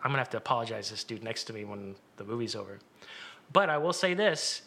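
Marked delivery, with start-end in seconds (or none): 0.0-2.8 embarrassed. Retold or imitated. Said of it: "I'm horribly embarrassed".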